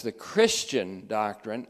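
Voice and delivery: slow, with Christian leaned on and rising; stress on Christian. Shown as a demonstration. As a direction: lean hard on "Christian", slowly. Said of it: "emphasizing the word Christian".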